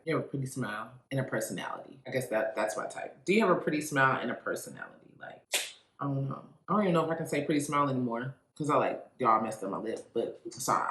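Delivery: talking with a numb, swollen lip; speech slurred by a numb lip. Real, not acted. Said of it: "I don't know if y'all can tell I'm talking weird".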